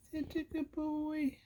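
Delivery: soft breathy whisper; just air, no voice. Real, not acted. Whispering praise to the cat again.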